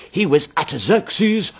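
slow, triumphant pulpit climax; mock triumph. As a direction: draw it out as the preacher's grand reveal. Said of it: "with enormous triumph".

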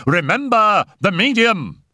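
high, urgent cry; shouted warning. A narrator's reading. Raoul warns for the medium's life, shouting. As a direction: shout a desperate reminder, pitch up. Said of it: "he shouted".

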